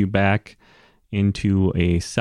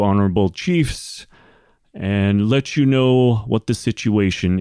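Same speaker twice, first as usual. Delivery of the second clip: raised, formal address to a hall; cleric herald. Acted. Cleric asking the chiefs to leave, formal announcement. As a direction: announce it firmly but courteously.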